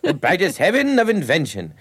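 mimicking his professor reciting Henry the Fifth, slow and grandly theatrical; imitating his Shakespeare professor. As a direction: ham it up like a pompous old Shakespeare teacher. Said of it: "Like that".

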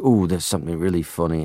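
light imitation of a Liverpudlian dad; a touch of Liverpool accent, quoting Dad; dad's Liverpool accent. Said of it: "He would be like".

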